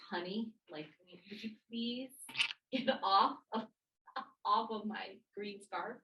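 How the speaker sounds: sweet, gentle request with a little laugh; honey voice. Shown as a demonstration. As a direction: ask nicely, like calling someone honey. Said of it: "using a honey voice".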